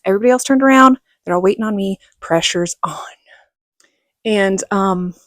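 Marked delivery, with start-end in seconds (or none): 2.2-3.0 breathy whispered aside, almost to herself. Real, not acted. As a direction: whisper it like the pressure is mounting.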